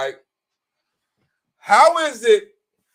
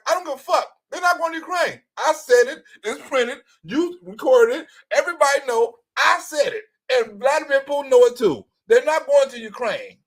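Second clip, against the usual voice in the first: mock Trump; 6 semitones higher than usual. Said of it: "Donald Trump, like".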